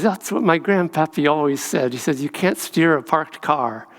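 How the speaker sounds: put-on a folksy Southern saying in a light deep-south accent; hint of a deep-south accent. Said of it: "with a really rich, deep southern accent".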